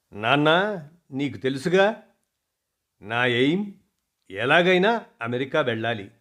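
lightly wheedling daughter's plea; pampered coaxing. Acted. Daughter coaxing her father about America, mild wheedling. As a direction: coax your father a little, like a spoilt child. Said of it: "గారాలు పోయింది".

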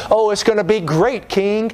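a hint of a feel-good prophet; Joel Osteen. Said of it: "They sound like Joel Osteen".

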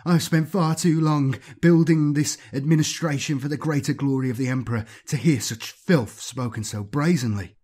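lightly voiced offended bureaucrat; indignant administrator. Administrator justifying the shooting to the marines, indignant.

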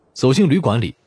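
ordinary delivery, nothing marked

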